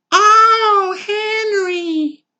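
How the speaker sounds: high, breathy-free moan of pleasure; 1 passionate moan. Acted. Wife moaning to husband in bed, high moan. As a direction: moan his name high and long.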